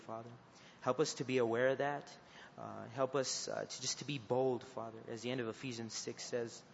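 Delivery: earnest prayer voice addressing the Father; closing prayer. Acted. Youth leader praying over his students, earnest prayer voice. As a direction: pray over the group steadily and sincerely.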